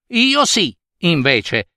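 mamma snail insisting, the first word high; a hint of a stubborn mother snail; lightly voiced mother snail. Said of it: "rispose mamma lumaca". (mamma lumaca ostinata, appena interpretata)

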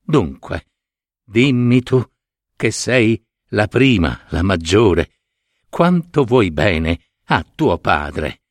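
a hint of a regal old father asking; storyteller's king; king's voice. King asks his daughters.

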